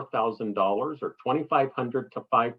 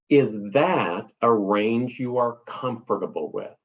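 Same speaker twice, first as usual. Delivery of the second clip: model answer. Shown as a demonstration. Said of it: "The opening line was".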